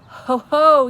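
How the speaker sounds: high, loud exclaim; triumphant cry. A narrator's reading. The BFG remembers, loud and triumphant. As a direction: shout with discovery. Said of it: "he cried at last".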